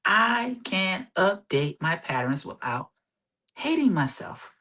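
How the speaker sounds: slow, deliberate affirmation with a pause; really slowly. Shown as a demonstration. Coach demonstrating an affirmation for listeners, really slowly. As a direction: spell it out slowly, phrase by phrase. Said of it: "saying this really slowly".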